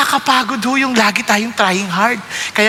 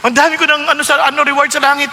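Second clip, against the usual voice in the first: smug boasting; 2 semitones higher, faster than usual. Retold or imitated. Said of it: "Nagche-checklist tayo".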